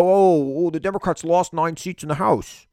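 slightly high-pitched mock lament; mock dismay. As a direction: lightly mimic a pundit's hand-wringing. Mimics media fretting over losses.

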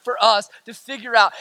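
forceful rally cry to the congregation; rousing preaching. Real, not acted. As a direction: preach it with driving emphasis.

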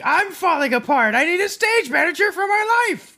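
very high panicked whine; high neurotic whine. Retold or imitated. Mock neurotic cry.

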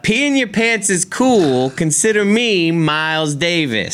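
put-on old lady quote. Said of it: "the old lady says that".

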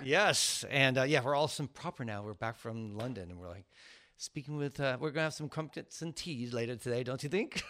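soft, hammed-up mock British; bad British accent. Host jokes about being back from London, badly faked British accent. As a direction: put on a terrible British accent. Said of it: "Your accent is".

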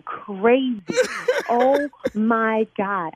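slow, laughing disbelief; embarrassed prank victim laughing; relieved laughter. Real, not acted. Relief after prank revealed.

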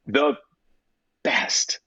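breathy whisper for emphasis; hushed, reverent whisper. Real, not acted. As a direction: drop to a whisper on the last word.

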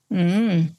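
a short closed-mouth knowing mm; a calm, knowing mm; knowing hum. Shown as a demonstration. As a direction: hum it like an unimpressed okay. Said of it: "look at them like this".

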